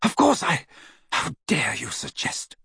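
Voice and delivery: reply in offended heat. Acted. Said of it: "her voice was heated as she replied".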